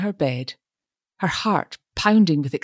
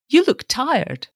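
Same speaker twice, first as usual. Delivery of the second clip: solicitous; 9 semitones higher, slower than usual. A narrator's reading. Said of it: "said Mister Brown solicitously".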